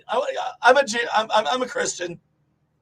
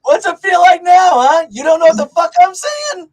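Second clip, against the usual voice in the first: loud, higher mocking taunt; yelled mock taunt at the students; 5 semitones higher, 9 dB louder than usual. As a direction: jeer at the kids who shut you out. Taunting the Portuguese kids.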